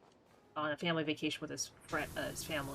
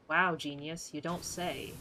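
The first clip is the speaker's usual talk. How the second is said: sarcastic. Retold or imitated. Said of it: "I was a little sarcastic with them".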